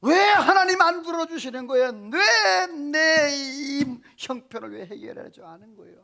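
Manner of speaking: high, whining protest to God; hammed-up grumbling, starting loud and high, then sinking; resentful complaint. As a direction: act out someone railing at unanswered prayer. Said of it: "하면서 원망하고 불평할 수 있어요".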